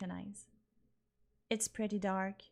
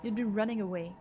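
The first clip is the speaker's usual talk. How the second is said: heated argument. Acted. Arguing at gunpoint.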